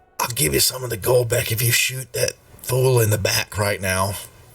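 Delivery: ever so soft, hushed, close murmur in the ear. Game narrator voices someone speaking into a player's ear, ever so softly. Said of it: "just ever so softly".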